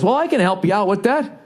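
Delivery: high-pitched, helpful imitation; nice rental clerk. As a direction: put on an eager-to-help employee's high voice. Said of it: "he was so nice".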